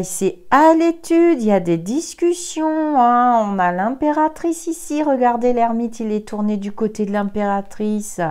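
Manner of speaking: proclaiming the cards' verdict; animated reading. Real, not acted. Tarot reader announcing results to viewers, animated and emphatic.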